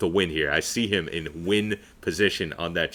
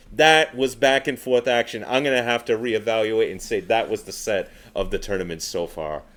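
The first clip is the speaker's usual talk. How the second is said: out of breath. Real, not acted. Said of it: "Wow, I'm out of breath".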